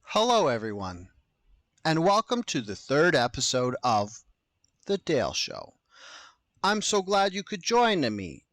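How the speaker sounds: deliberate, overly professional welcome; weird host voice. Real, not acted. Host welcoming listeners to the third episode, weird measured delivery. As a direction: greet listeners with odd, measured formality. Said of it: "I'm talking so weird".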